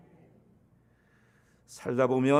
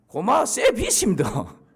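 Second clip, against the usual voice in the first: put-on Gyeongsang accent; 5 semitones higher, 4 dB louder, much slower than usual. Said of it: "그랬더니 경상도 청년이".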